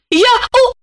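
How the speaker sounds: high, stuttering in shock; high stammering panic. A narrator's reading. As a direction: stammer out the confession. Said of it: "заикаясь".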